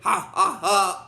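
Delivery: spoken mock villain laugh; deliberate, separated ha-ha-ha of a villain; Zed. Imitating Zed gloating, mock laugh. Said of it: "Then he's like".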